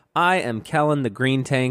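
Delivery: normal talking voice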